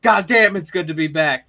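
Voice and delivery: a hint of Stone Cold's gruff promo. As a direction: punch the opener loud, then settle. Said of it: "your promo delivery for both of them was really good".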